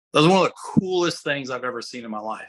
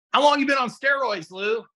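high, rough put-on voice of a truck passenger; gruff lifter voice; 10 semitones higher than usual. Guy in the truck asks Louis about steroids, in a high rough imitated voice. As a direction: rasp it out like a hardened gym guy, pitched up. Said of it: "Louis talked like this".

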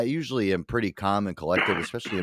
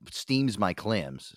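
1 drawn out; much slower than usual. Real, not acted. Comic idiom drawn out.

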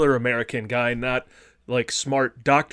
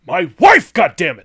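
loud, higher, exasperated yell; exasperated shout; 6 semitones higher, 13 dB louder than usual. Retold or imitated. Harrison Ford's husband yelling at the French police, exasperated shout. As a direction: blurt it out like a frantic husband at the end of his rope. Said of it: "we're all Harrison Ford when he tells her".

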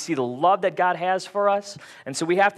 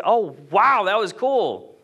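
higher-pitched pretend wowed cheer; mock excitement; 4 semitones higher, slower than usual. Preacher imagines disciples after the storm, mock excitement. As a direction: act out imagined delight, pitched up. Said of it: "They weren't excited".

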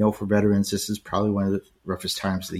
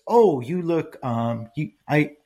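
higher mock voice with a bright "oh"; imitating her speech; 4 semitones higher than usual. Young woman says he looks Spanish, higher mock imitation. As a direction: copy the young woman's halting phrasing. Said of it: "she was speaking just like that".

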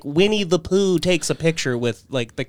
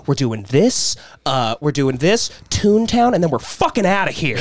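stressed mom cursing. Retold or imitated. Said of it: "She's cursing in line".

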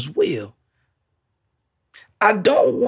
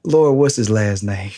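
mock questioning; 9 semitones lower than usual. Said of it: "would have said more".

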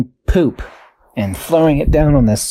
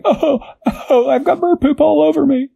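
silly bus voice. Acted. Buses complain about poop.

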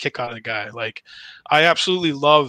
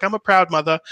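put-on lightly done Boston accent mom, higher and louder; 5 semitones higher, 3 dB louder than usual. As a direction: quote mom in a Boston accent, half-hearted. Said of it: "she's got a wicked Boston accent".

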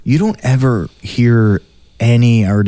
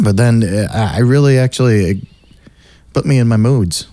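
ordinary delivery

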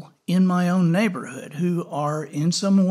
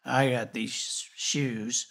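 soft, low, ashamed mumble; mumbled; 4 semitones lower, 7 dB quieter than usual. Acted. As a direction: mumble it down at the ground. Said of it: "Timmy mumbled".

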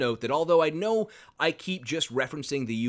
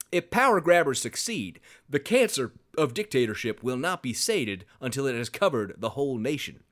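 put-on Southern accent. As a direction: read it like a Southern preacher. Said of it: "I liked your Southern accent".

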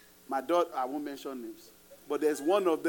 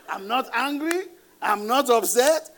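loud emphatic; 6 semitones higher, 7 dB louder than usual. Shown as a demonstration. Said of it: "let me say it your way".

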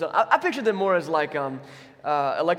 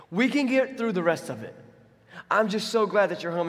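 welcoming father. Pretend. Father welcoming his lost son home, earnest and glad. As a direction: stress on "don't", hearty and glad. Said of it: "His attitude is".

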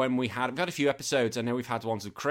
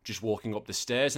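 breathless. Real, not acted. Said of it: "if I sound a bit breathless on this podcast".

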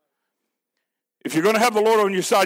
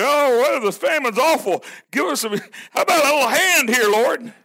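mock the careless asker's casual plea; whiny mock plea; 4 semitones higher than usual. Preacher mocks people casually begging the Lord for help, whiny.

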